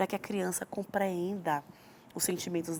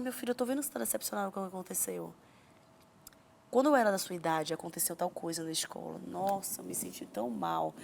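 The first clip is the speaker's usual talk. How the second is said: softer, lower, confiding voice; empathetic parent; 3 semitones lower, 5 dB quieter than usual. Acted. Parent connecting with disappointed son, tender and understanding. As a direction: gently share a vulnerable memory, as a parent would.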